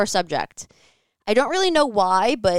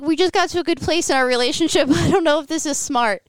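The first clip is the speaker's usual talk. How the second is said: higher, laughing through the words; nervous laugh while quoting yourself; retelling her nervous reply with laughs; laughing nervously; 7 semitones higher, 3 dB louder than usual. Retold or imitated.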